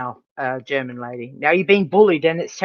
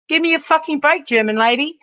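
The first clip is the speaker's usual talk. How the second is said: exasperated high retort; 8 semitones higher than usual. Real, not acted. Streamer throws it back at German lady, exasperated. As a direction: pitch jumps up in disbelief.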